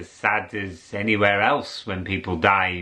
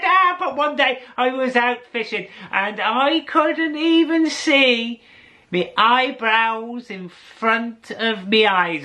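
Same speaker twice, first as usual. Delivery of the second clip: put-on high, lilting old fella telling a tall tale; old fisherman voice; 12 semitones higher than usual. Old fisherman boasting to the narrator about mist. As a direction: spin the yarn like an old Irish fisherman. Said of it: "He said".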